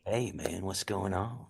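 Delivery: lightly imitated easygoing Southern movie star; Matthew McConaughey. Shown as a demonstration. Actor demos his mist voice for the host, lightly imitated drawl. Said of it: "kinda like a Matthew McConaughey".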